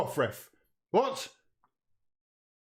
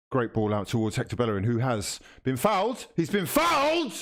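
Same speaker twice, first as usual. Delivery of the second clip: TV match commentator voice; live commentary; 2 semitones lower than usual. Acted. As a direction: call the match like a broadcaster.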